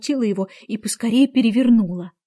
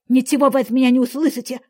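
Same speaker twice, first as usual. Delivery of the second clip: defiant; faster than usual. Acted. Cook refuses to testify.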